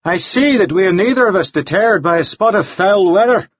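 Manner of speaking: high, polished English gentleman voice; pleasant, chatty, a bit formal; genteel gentleman. A narrator's reading. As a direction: Devlin making polite conversation about the weather. Devlin's voice.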